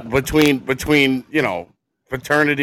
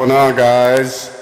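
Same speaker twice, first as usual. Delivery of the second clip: slow, louder fatherly greeting; dad voice; 3 semitones higher, 8 dB louder, slower than usual. Acted. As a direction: greet them like a proud new dad. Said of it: "Is that your dad voice?".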